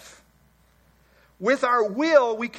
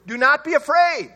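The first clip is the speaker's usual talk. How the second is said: declared; 5 semitones higher, 6 dB louder than usual. Acted. Moses declaring.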